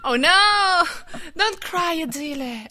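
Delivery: high, loud cooing dismay; hammed-up high-pitched comforting; mock consoling. A pretend singer cries, host consoles her.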